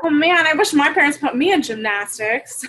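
laughing through the words; wistful laugh while talking; amused envy, laughing. Real, not acted. Laughing wish about parents.

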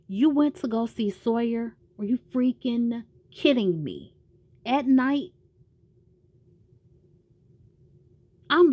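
hammed-up jealous husband venting; jealous outburst. Jealous quarrel with Kate.

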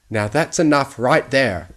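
put-on firm old pony scolding; stern. A narrator's reading. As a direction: step in firmly, voice up. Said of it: "looking down at Fluttershy sternly".

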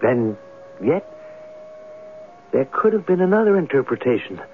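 measured, brooding radio narration; story narration. A narrator's reading. Writer narrates his plan to sleep in the room, brooding.

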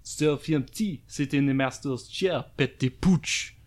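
impression within impression. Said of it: "that was an impression in an impression".

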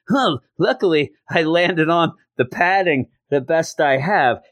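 a hint of a put-on voice; lightly voiced Foggy. Acting out Foggy after his fall.

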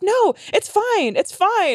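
high, drawn-out reassurance; sweet and patient. Retold or imitated. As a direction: imitate a girlfriend soothing you sweetly. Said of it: "so sweet and patient".

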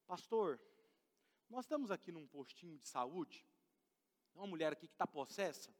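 hushed urgent phone request; caller on phone. Retold or imitated. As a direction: relay the urgent call softly. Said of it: "Me ligaram".

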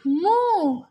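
voiced imitation of a mooing cow. A narrator's reading. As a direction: moo loudly like a cow.

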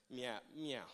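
low, quiet meow; mock cat meow. Preacher calling to the cat people, mock meow. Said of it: "I don't know why I meowed".

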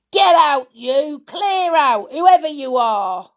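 high, loud, forceful yell; loud shout. A narrator's reading. Mister Stick orders intruders out, shouting loudly. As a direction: shout them off from the doorway. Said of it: "and shouted loudly".

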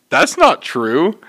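slow, measured contradiction; retold simple denial. Coworker backing up deli worker, slow measured denial. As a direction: deny it slowly, without the high protest.

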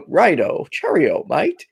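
lightly attempted British accent with a laugh; a clumsy try at a British accent; British accent, hammed up and failing; bad British accent. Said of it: "I can't do accents".

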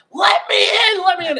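high pounding shout at the locked door; retold desperate yell. Teen retelling banging on a bathroom door, mock yelling. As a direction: yell to be let in, hammed up.

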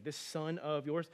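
slow, scornful rising tag; slow contempt. Retold or imitated. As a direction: drag it out with scorn. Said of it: "speaking about him in that way".

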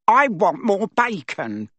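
high, slow whiny demand; spoiled boy demanding. A narrator's reading. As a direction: whine it like a spoiled brat.

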